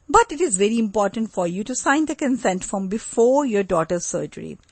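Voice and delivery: steady, insistent, no-nonsense; firmer tone. Shown as a demonstration. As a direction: press a reluctant parent to sign the consent form. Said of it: "Now just see the firmer tone".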